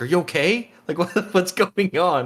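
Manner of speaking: mock very high, loud, alarmed, worried voice. Retelling their mom's reaction to them freaking out, imitating scared mom. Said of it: "she was like all scared".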